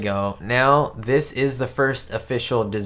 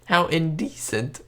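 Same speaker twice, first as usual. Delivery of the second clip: higher, mock-shocked society ladies; prim offended ladies; 7 semitones higher than usual. Reacting to a Stooges clip, mock prim scandalized ladies. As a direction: play up the ladies' outrage. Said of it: "All the ladies are like".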